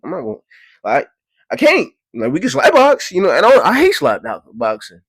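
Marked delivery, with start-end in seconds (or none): 1.5-3.9 much higher, louder voice; squeaky protest. Real, not acted. Telling the crowd he can't fight, high protest. Sudden high pitch outburst.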